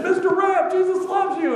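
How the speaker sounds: high-pitched yell, mimicking his friend; imitated yell. Friend hailing a supposed acquaintance out the door, imitated high-pitched yell. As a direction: call out like someone hollering through a door. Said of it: "he yelled out the door".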